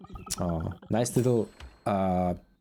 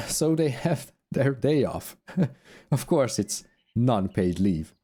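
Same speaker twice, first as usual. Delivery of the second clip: raised voice of a haughty crew boss. Acted. Voicing sister NPC.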